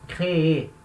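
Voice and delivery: "créer" in two syllables, cré-É; strong last syllable. Shown as a demonstration. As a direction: sound out the final É of "créer". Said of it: "tenho que falar ela".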